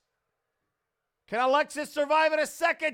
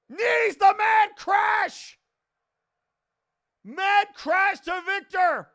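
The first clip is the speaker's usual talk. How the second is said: excited shout; 5 semitones higher, slower than usual. Real, not acted. Big move in a wrestling match.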